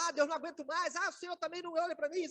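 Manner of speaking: whiny complaining prayer. Retold or imitated. Preacher mocking a complaining believer's prayer, whiny. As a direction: moan like a self-pitying believer.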